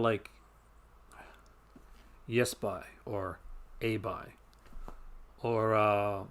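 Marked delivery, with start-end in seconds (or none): 2.3-2.9 put-on Newfoundland accent. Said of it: "where I'm from, you get a lot of". 3.8-4.3 put-on Newfoundland accent. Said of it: "where I'm from, you get a lot of".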